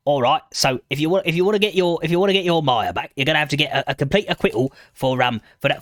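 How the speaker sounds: half-hearted London gangster voice; a weak attempt at a Cockney crook; Michael Caine. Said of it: "I can't really do Michael Caine".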